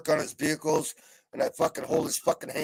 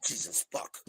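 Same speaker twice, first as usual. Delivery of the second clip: breathy whispered swear under the breath; whispered curse; 13 dB quieter than usual. Real, not acted. Muttering to himself about the redhead, whispered. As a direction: curse to yourself so no one hears.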